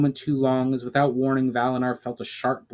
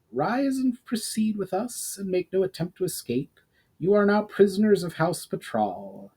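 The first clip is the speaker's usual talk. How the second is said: stern commander; 7 semitones higher than usual. Acted. Commander arrests the prisoners.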